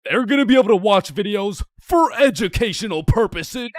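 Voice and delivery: excited pitch. Acted. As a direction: pitch it like a world-changing invention. Inventor pitching the internet.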